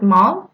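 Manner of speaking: MAL said alone with a rising tune; French pronunciation. Shown as a demonstration. Teacher showing the French word for bad, French pronunciation. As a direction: model MAL as a French word, lifting at the end. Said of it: "and we pronounce it".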